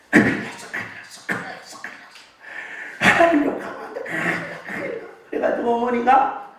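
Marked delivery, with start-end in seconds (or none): 0.1-5.1 frightened whisper. Retold or imitated. Mother frightened by a drunk's cursing.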